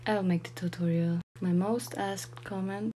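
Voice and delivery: ordinary talk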